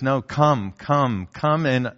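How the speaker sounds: put-on God inviting his child under his authority, tender; gentle call. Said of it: "And God says".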